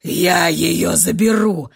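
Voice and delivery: low, loud, slow snarl; furious retort. A narrator's reading. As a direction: spit out the threat in rage. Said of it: "бросил разъярённый Ашер". (разъярённо бросил)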